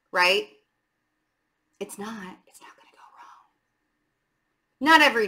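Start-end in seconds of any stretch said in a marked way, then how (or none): 1.8-3.5 soft whispered reassurance, fading away; hushed, breathy-free whisper, almost inaudible at the end; reassuring whisper. Real, not acted. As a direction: whisper it like a secret comfort. Reassuring viewer after fearful thought.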